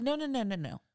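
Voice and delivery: hammed-up bossy lady halting them; mock stern stranger. Retelling the lady who stopped them at the stream, mock stern. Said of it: "She was like".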